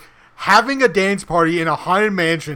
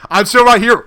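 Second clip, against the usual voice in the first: mock NPC voice; 5 semitones higher, 7 dB louder than usual. Retelling NPC scene, voiced guard.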